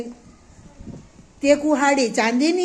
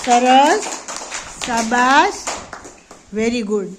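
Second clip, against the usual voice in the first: hearty praise; slower than usual. Real, not acted. Teacher praising children after they clap, hearty praise.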